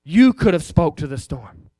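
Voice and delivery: a hint of Jesus scolding, low; disappointed correction; preacher voicing Jesus rebuking disciples, mildly stern; stern rebuke. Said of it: "He said".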